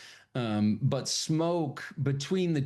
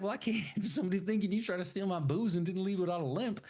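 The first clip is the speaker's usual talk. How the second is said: Smoke's deadpan; 8 semitones higher, faster than usual. Retold or imitated. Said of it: "He's like".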